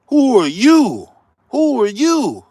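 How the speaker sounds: scornful confrontation; indignant challenge. Acted. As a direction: call him out, incredulous. Scolding Obama, mock confrontation.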